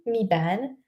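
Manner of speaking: "me Ban" with a short vowel in "Ban"; "me Ban", trying it as mee-ban; tentative pronunciation. Shown as a demonstration. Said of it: "how I'm supposed to pronounce it".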